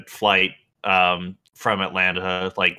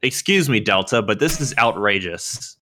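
hammed-up indignant customer complaint, louder on the punchlines; mock outrage; 3 semitones higher, 5 dB louder than usual. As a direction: read it as a mock-outraged complaint, on the edge of laughing. Reads out an outraged tweet, laughing.

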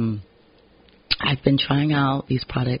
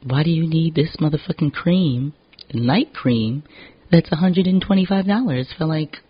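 incredulous self-talk; 4 semitones higher than usual. Retold or imitated. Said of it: "I'm like".

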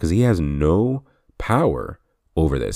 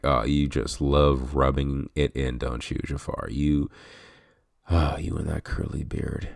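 like a compliment; 5 dB quieter than usual. Retold or imitated. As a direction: tease him as if praising the beard. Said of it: "I don't know why I said it like that. Like it was a compliment".

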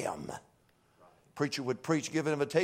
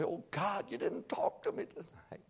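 hushed, breaking plea that climbs higher on each "talk to me"; pleading prayer; 12 semitones higher, slower than usual. Retold or imitated. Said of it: "You ought to come down and say".

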